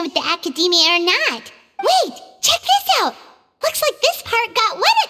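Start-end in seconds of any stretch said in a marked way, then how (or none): 1.8-5.1 sudden eager call, pitch jumps up; excited. Acted. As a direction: point it out with a burst of discovery. Paimon spots a stain.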